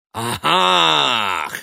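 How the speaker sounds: high loud scornful "Ah!"; scoffing exclamation. A narrator's reading. Son scoffing at his mother's lecture. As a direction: let out a derisive cry. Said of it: "сказал он".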